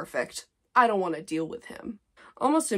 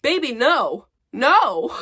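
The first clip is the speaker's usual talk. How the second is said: higher, louder, firm no; gentle scolding; 6 semitones higher, 7 dB louder, slower than usual. Real, not acted. To her younger self, firm scolding no. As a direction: talk down your younger self. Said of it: "scolding past self".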